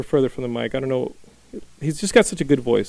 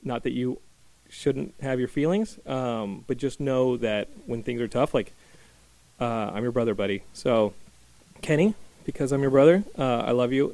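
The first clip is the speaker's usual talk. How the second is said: emotional; 4 dB quieter than usual. Real, not acted. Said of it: "I hate to get emotional".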